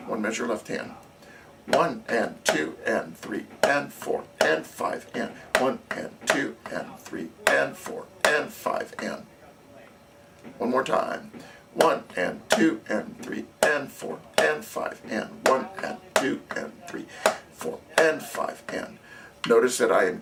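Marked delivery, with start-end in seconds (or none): 1.7-9.2 steady counting aloud over the drumming; counting in time. Shown as a demonstration. Drum teacher counting the beat aloud for the student drumline. 11.7-19.0 steady counting aloud over the drumming; counting in time. Shown as a demonstration. Drum teacher counting the beat aloud for the student drumline.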